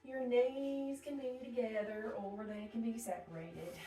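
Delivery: put-on a touch of Texas accent. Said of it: "I don't know why I did that Texas accent".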